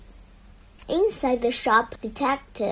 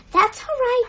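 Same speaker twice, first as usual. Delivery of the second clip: doubtful; 12 semitones higher, 6 dB louder than usual. Acted. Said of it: "said Paddington doubtfully".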